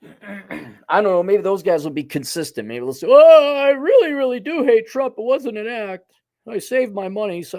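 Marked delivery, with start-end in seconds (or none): 3.1-7.4 mock sincere host. Mock confession by TV hosts.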